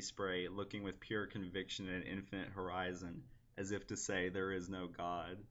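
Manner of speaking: lightly recited poem in long, even phrases; poem reading. Acted. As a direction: read it as verse, understated. Reads own poem aloud.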